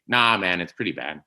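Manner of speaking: lightly imitated Canadian accent. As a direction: do a friend's mild Canadian accent. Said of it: "For doing a Canadian accent".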